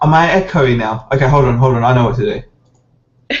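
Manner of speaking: echoey mic, big hall echo; like talking in an empty hall. Real, not acted. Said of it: "you sound very echoey".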